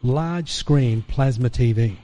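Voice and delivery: very slow, soft, measured promise; voice of God. Retold or imitated. God speaking within his spirit, slow and soft. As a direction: lay out each word like a solemn promise. Voicing God's inner words.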